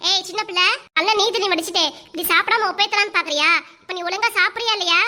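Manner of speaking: mock-stern scolding of the girl. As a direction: tell her off like an elder sister. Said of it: "ஏங்கா அதட்டுற".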